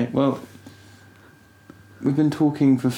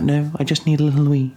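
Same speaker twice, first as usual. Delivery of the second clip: mock wife; 5 semitones higher than usual. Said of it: "She's like".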